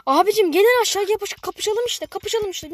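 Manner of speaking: yelling a challenge at enemies; taunting shout. Real, not acted. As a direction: egg them on to come down and fight. Taunting enemies to come fight.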